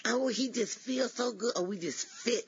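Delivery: high, dreamy, swooning gush; giddy excitement. Retold or imitated. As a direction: coo like she's smitten. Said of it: "she was just all excited".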